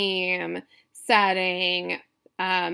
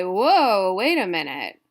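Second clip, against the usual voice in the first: startled reader; 6 dB louder than usual. Acted. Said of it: "you would say".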